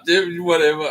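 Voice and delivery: high, loud laughing dismissal; real laughter. Real, not acted. Player laughing at the ranting Scotsman, loud and high. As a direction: laugh it off in disbelief.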